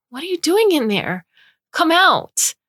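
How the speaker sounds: put-on very high and loud, a little girl calling out; eager child's call. A narrator's reading. Little daughter calling to mom inside the robot, high eager shout.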